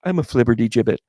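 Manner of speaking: lightly imitated flighty movie character; Meg Ryan character. Movie character describing herself, lightly imitated voice. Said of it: "where she talks like this".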